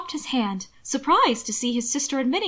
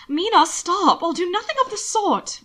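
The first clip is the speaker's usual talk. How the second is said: raised, higher-pitched protest; firm refusal; 8 semitones higher, 4 dB louder than usual. A narrator's reading. Brother keeps the letter from his sister, sharply refusing. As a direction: cut her off, loud on the opening.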